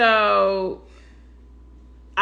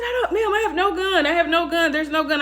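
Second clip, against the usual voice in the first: insistent denial; 6 semitones higher than usual. Retold or imitated. Denying gun to the mom.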